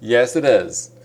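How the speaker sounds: imitating a native American speaker, the t swallowed and drawn out; a lightly done American Yes, it is with no clear t; 1 native American English. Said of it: "ネイティブのアメリカ人の人が言うと".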